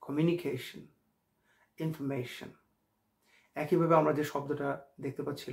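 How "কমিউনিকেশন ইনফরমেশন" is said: কমিউনিকেশন, ইনফরমেশন with a short reduced "shn" ending; small-mouthed ending. Shown as a demonstration. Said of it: "মুখটাকে ছোট করব".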